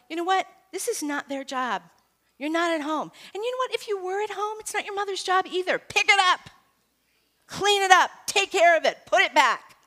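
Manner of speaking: high, loud scolding lecture; high, loud stern telling-off; scolding teacher. Retold or imitated. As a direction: lay down the law to the kids. Scolding students at school.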